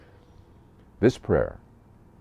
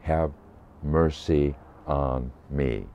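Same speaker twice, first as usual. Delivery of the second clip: prayerful; much slower than usual. Shown as a demonstration. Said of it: "these six words".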